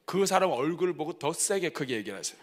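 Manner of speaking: normal talking voice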